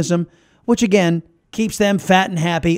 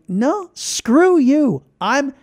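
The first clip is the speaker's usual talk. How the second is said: defiant quote; 3 semitones higher than usual. Retold or imitated. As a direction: spit it out with defiance. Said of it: "business owners who are saying".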